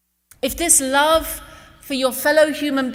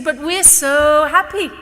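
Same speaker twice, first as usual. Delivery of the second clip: slow, higher-pitched, wondering insistence; earnest protest; 4 semitones higher, 3 dB louder than usual. Retold or imitated. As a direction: retell her happy protest, drawing it out. Retold mother insists they are happy.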